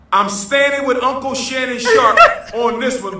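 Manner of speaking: giggling during the repeat; laughing. Real, not acted. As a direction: laugh breaks in mid-line. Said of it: "repeat with laugh".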